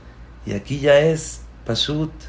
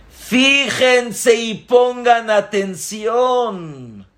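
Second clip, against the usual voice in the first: slow, higher, insistent command; a rabbi's slow raised instruction; stern rabbi; 10 semitones higher, 3 dB louder, much slower than usual. Acted. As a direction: make them pay attention. Rabbi addresses students.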